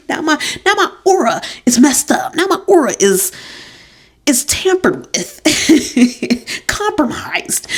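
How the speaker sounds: high, giggly, breaking into laughs; cracking herself up. Real, not acted. Podcaster joking about her messed-up aura, cracking up. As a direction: struggle to finish through your own laughter. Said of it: "I just cracked myself up".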